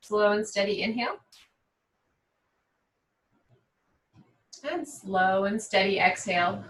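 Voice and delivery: calm, even yoga-teacher voice, long pauses; guided meditation. Real, not acted. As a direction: guide them unhurriedly through breathing. Leads seated breathing and intention setting.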